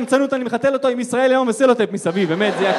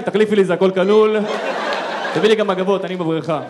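spoiled guest voice; 3 semitones lower, 4 dB louder than usual. Pretend. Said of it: "עושה קקי מכנסיים".

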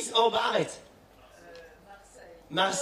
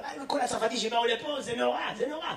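mock muttering; 8 dB quieter than usual. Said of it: "הוא אומר".

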